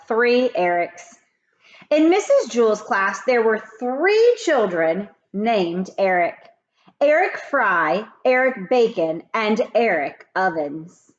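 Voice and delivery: lively read-aloud storytelling; story narration. A narrator's reading. Teacher reading a chapter aloud to kids, lively. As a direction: read it like a teacher to her class.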